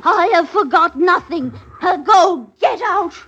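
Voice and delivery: loud, furious order to leave; angry shout. Acted. Woman throwing Goody Copper out, angry shout. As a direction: drive her out of the house.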